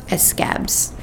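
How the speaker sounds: "Escabs" with an added "e" before "scabs"; escab with extra syllable. Retold or imitated. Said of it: "Papa says the word scab like his tongue is a skipped record, adding a syllable up front".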